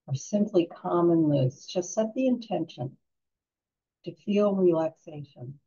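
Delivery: calm guided-relaxation voice with long pauses; unhurried, soothing meditation guide. Real, not acted.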